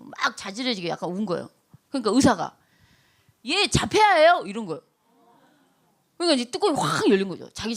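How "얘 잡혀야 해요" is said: blunt doctor. Retold or imitated. Voices doctor's blunt verdict to mother.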